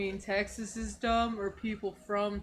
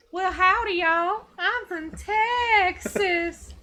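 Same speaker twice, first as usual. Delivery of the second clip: hammed-up Texan twang, higher and louder, very slow at the end; Texan accent; 7 semitones higher, 5 dB louder, much slower than usual. Streamer voicing the cucumber king as a Texan like Sandy Cheeks. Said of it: "talk like Sandy Cheeks".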